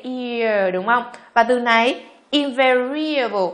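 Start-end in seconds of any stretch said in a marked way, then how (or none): 2.3-3.5 "invariable" with an ear-like glide; EAR vowel. Shown as a demonstration. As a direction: draw out "invariable" as a slow pronunciation model. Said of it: "cũng là từ ear".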